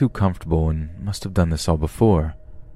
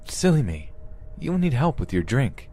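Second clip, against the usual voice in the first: higher-pitched, politely fussing captor; playful captor; 7 semitones higher, 3 dB quieter than usual. Acted. Captor offering help with a drink, playfully polite. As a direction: play an over-friendly captor, pitched up.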